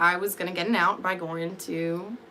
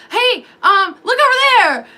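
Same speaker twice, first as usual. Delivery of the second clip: very high, loud falsetto distraction; mock distracting guy; 13 semitones higher, 11 dB louder than usual. Inmates trying to distract her, squealing high. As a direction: squeal it to pull attention away.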